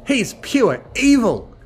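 high, loud, slow accusation; shouting. A narrator's reading. Rainbow condemning Barry to the group, shouting. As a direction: shout it, leaning on each word. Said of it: "Rainbow Dash shouted".

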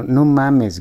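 shouted. Acted. Aurelia losing patience with Ricardo, shouting. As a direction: blurt the vulgarity out. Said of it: "gritó Aurelia".

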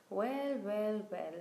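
drawn-out stage whisper; acted, forceful whisper. A narrator's reading. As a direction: whisper it with full projection. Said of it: "he whispered".

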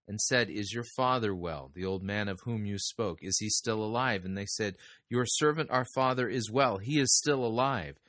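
measured, formal reading of the Bible passage; solemn Bible reading; scripture reading. Acted. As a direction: read the verses aloud to the congregation with care. Reading Genesis aloud in sermon.

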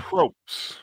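approps squeaked high and breathy; squeaky mock approps. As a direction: squeak it back mockingly. Mocking repeat of approps.

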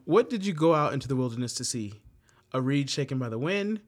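measured, earnest scripture reading. Acted. Leader reading Bible verses to the group, measured and earnest. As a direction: read the verse to the group with gravity.

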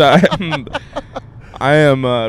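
tongue-tied stammer; tripping over words; stumbling words. Real, not acted. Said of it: "I am Bidening out right now".

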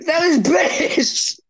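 high-pitched, drawn-out mock wail; mock despair. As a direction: whine it slowly, as if about to cry. Despairs at his failed accent.

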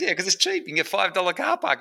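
a hint of a cheerful cheapskate friend; mimicking the frugal friend's excuse; imitating the friend. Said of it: "he goes".

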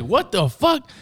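high, loud burst of disbelief; retold disbelief. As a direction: re-enact being stunned, pitch leaping up. Retold shock at learning he's British.

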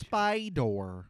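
Spider said the standard way, clear t sound; standard pronunciation. Shown as a demonstration. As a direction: say Spider as it's supposed to be said. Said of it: "That's how it's supposed to be said".

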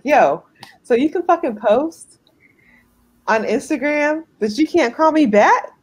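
accusing question that climbs in pitch; indignant challenge. Retold or imitated. Girlfriend calling out boyfriend posting but not calling back, indignant. Acted angry reaction to his post.

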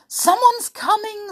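sudden high alarmed cry; panicked. Acted. George warns the others someone is coming, panicked and high. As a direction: blurt it out in a panic. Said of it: "said George in a panic".

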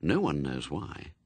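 usual speaking voice

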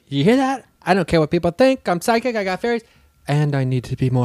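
squealing mock brag; mock triumphant. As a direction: tease her by parroting her boast. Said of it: "I thought you were gonna be like".

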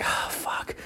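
very soft, breath-only curse; whispered dismay. Retold or imitated. Man walking out of the store, whispered dismay. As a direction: mutter it in defeat, no voice.

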